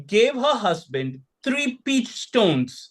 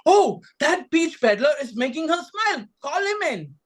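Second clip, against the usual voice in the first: lord musing aloud; 7 semitones higher than usual. A narrator's reading. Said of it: "Tonosama wondered".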